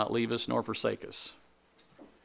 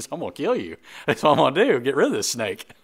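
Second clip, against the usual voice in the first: mock fierce; 3 semitones higher, 7 dB louder than usual. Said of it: "I'd be like".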